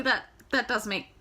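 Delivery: ordinary delivery, nothing marked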